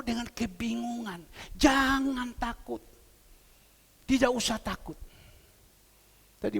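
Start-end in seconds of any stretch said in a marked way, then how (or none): 1.5-5.0 slowed-down, comforting "jangan takut"; ucapkan "jangan takut" pelan dan menenangkan. Real, not acted. Preacher reassures the congregation. (dengan pelan dan menenangkan)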